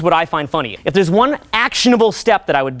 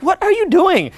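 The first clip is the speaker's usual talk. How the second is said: mock exasperated; 10 semitones higher than usual. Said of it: "I'm like".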